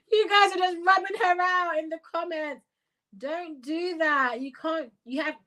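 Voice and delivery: high, squeaky plea through laughter; choked with laughter. Real, not acted. Host begs commenters to stop, high laughter-choked voice. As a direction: plead high, barely holding the laugh in. Scolds chat while overcome by laughter.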